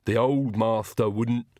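slow, drawn-out servant's grumble; muttering Igor. A narrator's reading. Igor complains to himself about his master, muttering. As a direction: grumble it in a put-on henchman voice. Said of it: "Igor muttered".

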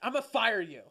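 usual speaking voice

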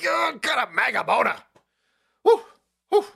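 gleeful mocking yell; shouted mockery. Real, not acted. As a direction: yell it out at him. Shouting at clip.

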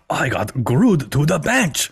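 a hint of Jenny, drawn out; Jenny's voice. Podcaster wishing for AI in Jenny's voice, mild imitation. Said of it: "in, like, Jenny's voice".

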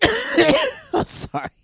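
very high, loud, stretched yelp; ecstatic cry. Real, not acted. Comic reacting to Georgia's championship win, stretched high ecstatic yelp. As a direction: overcome with joy. Overcome after game clip.

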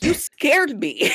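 high, drawn-out startled protest; retold fright. Lodger to roommate bumped into at night, retold startled protest. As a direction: stretch it out slowly, pitch up high. Acts her startled reply in hallway.

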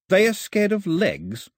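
high, drawn-out disbelieving question; incredulous. A narrator's reading. Mao repeats Pilou's absurd answer, incredulous. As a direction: echo it slowly, rising in disbelief.

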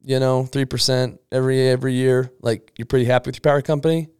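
mock-innocent sarcastic teasing. Shown as a demonstration. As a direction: needle the customer with fake sympathy. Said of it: "when I say sarcasm, it's like".

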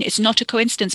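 quick, grudging giving in; exasperated concession. Acted. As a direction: concede it impatiently mid-quarrel. Cousin concedes, exasperated, in quarrel.

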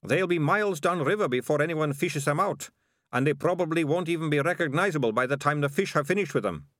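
lightly voiced rough ratcatcher; callous, matter-of-fact plotting.

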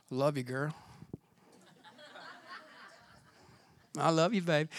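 mock a cheesy boyfriend's I love you; mock romantic line. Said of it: "I'm not talking about, like".

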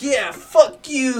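high, loud, drawn-out insult; mock anger. Disowning his drunk friend to dodge the fee, mock anger.

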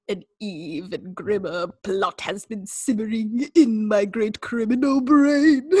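lightly voiced slow villain; a hint of a sinister villain, slow; slow, mild mock-sinister narration; Vincent Price impression. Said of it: "Vincent Price".

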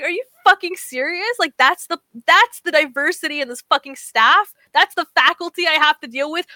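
high, exasperated retold rant; incredulous rant. Ranting about the faculty to the sweet teacher, exasperated. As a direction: vent it in disbelief.

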